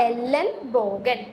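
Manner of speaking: എല്ലൻ ബോഗൻ pronounced slowly, syllable by syllable; slow German demo. Shown as a demonstration. Teacher models the German word for elbow, slowly. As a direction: stretch out എല്ലൻ ബോഗൻ for learners. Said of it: "എൽബോവിനെ പറയുന്നത്".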